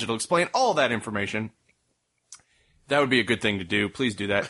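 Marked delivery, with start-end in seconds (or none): 2.9-4.5 odd mock-serious tone. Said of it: "I don't know why we're talking like this".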